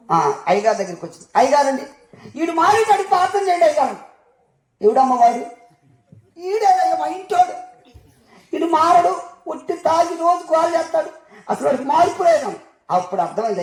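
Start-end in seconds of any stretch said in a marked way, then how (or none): 1.4-4.0 pleading wife. Retold or imitated. 6.4-12.5 high, whiny wife's lament with a laugh; complaining wife. Retold or imitated. Wife complaining to the pastor about her drunk husband, high and whiny.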